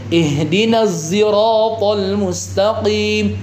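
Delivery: "Ihdinas" with a sound between z and s, slow chant; sound between zai and sin. Shown as a demonstration. Teacher voices a regional qiraah reading. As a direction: chant slowly, blurring sod toward zai. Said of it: "Kok di antara zai sama sin sih".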